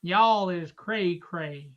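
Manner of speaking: slow, lightly done Southern drawl. Retold or imitated. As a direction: stretch it out in a light Southern accent. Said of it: "in his, uh, Southern drawl".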